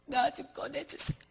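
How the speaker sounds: acted sobbing prayer for rescue; tearful begging. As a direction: plead weakly to be pulled out, then cry out.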